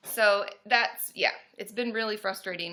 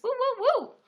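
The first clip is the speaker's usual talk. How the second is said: high-pitched party whoops; cheering; 13 semitones higher, 4 dB louder than usual. Real, not acted. Cheering about Palm Springs trip.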